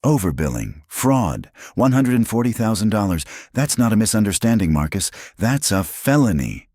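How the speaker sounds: cold accusation, quickening and rising; icy. A narrator's reading. Elena accusing Marcus of fraud publicly, icy. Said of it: "Elena's voice turned to ice".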